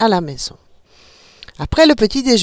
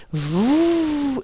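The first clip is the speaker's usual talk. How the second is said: engine noise; 7 semitones higher, 5 dB quieter than usual. A narrator's reading. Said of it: "Le petit fit".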